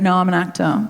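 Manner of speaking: casual put-on Australian accent. Driver tells his passenger his main job, in an imitated Australian accent. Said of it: "I'm going to do the accent".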